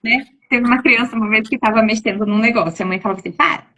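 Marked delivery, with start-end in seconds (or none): 3.3-3.7 higher-pitched mock scolding; mild mock yell, pitched up; retold mother's yell. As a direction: imitate a mother snapping at her child. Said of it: "ela deu um grito".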